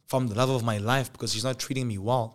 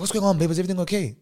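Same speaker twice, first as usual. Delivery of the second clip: put-on ex-boyfriend voice; 7 semitones higher, 5 dB louder, much faster than usual.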